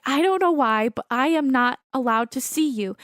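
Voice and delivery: put-on second stab at a Long Island medium's accent; imitated, imperfect Long Island accent; attempted Long Island accent. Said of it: "I can't do a Long Island accent. I'm trying".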